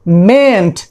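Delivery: mayn't as one long syllable, MAYNT; model pronunciation. Shown as a demonstration. Teacher shows students how mayn't sounds, modelled slowly. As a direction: say "mayn't" low and drawn out in one beat. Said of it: "pronunciation देखिए".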